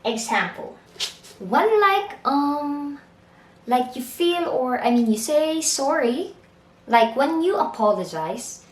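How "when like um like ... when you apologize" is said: rambling in circles. Shown as a demonstration. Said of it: "when the speaker talks around in circle".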